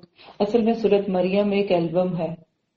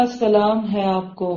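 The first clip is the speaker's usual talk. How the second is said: slow, peaceable farewell; forbearing son; slower than usual. Acted. Son answering father who sends him away, peaceably. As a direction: answer rejection slowly and courteously. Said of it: "بیٹا کیا کہہ رہے".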